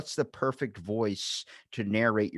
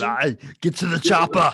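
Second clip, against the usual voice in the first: higher, loud barked action-hero command; Arnold impression; 8 semitones higher, 8 dB louder than usual. Friend jumps in with the famous line, loud Arnold impression. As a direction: shout it like the movie line. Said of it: "Oh, Arnold".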